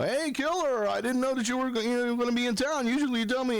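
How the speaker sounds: high-pitched friend on the phone. Retold or imitated. Friend calls on hearing he's in town, high imitation. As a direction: imitate a buddy's surprised, high-voiced hello. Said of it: "and Oz is like".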